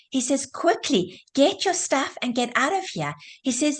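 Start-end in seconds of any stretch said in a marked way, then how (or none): 0.5-3.1 urgent, higher-pitched mock shout; mild retold shout. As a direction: half-shout a warning, voice raised in pitch. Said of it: "And he shouts".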